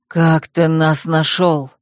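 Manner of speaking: slow hoarse rasp of a wounded man. Acted. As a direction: rasp the question out, slowly. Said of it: "прохрипел страж".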